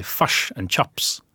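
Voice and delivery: slow New Zealand "fush and chops", the i turned to u; New Zealand accent. Shown as a demonstration. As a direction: say "fush and chops" like a Kiwi, slowly. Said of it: "In New Zealand, they'll say fush and chops".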